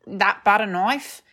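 put-on broad Australian accent; slow, loud Australian twang. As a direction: ham up the Aussie vowels. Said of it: "In an Australian accent".

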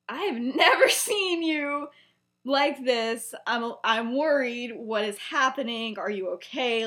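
a mildly alarmed retold Sirius; worried friend. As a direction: plead with a shaken friend.

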